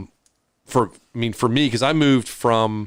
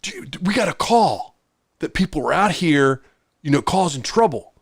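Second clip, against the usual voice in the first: a hint of a nervous cop excusing himself; lightly voiced cop; 4 semitones higher than usual.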